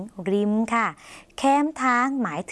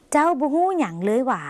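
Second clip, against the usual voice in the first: higher-pitched, unsure Lao question; doubtful question; 4 semitones higher than usual. Shown as a demonstration. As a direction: ask doubtfully, drawing out the final หว่า. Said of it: "น้ำเสียงแบบสงสัยไม่แน่ใจค่ะ". (ถามด้วยน้ำเสียงสงสัย ไม่แน่ใจ)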